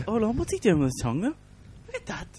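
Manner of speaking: high, fast, amused outrage; mock shock. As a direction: squeal at the cheeky drawing. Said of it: "mock shock at card".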